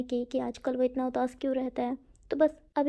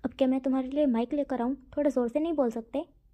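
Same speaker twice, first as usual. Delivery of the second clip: irritated. Acted. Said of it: "विंग irritate होते हुए बोलता है".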